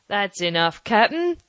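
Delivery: cheery shout. Acted. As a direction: call up to him jauntily. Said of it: "shouted Long John cheerily".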